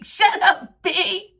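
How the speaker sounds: high laughing brush-off; laughing kid's retort. Retold or imitated. The boy on the scooter answering her, laughing and high. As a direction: toss it back laughing like the boy. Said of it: "And he was like".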